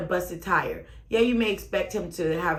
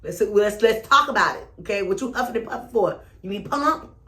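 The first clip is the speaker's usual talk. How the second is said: teasing challenge; 4 semitones higher, 4 dB louder than usual. Real, not acted. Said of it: "I'm one of those people".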